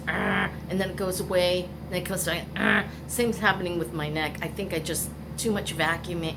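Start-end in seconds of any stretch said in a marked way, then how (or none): 0.1-0.5 pained argh. Acted. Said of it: "it says". 2.5-2.9 pained argh. Acted. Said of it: "it says".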